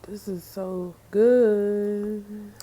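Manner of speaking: very slow, drawn-out relish; lingering "so good" moan of pleasure; savouring. Real, not acted. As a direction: stretch every word out in delight. Savouring food.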